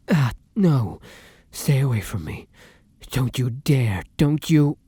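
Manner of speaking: urgent, strained plea to keep away; alarmed warning. Acted. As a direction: fight yourself and warn them off. Fights off own hunger, warns companion.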